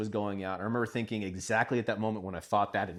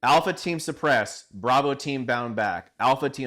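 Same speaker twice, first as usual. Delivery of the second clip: retold shouted commands; 3 semitones higher, 6 dB louder, slower than usual. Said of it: "I was like".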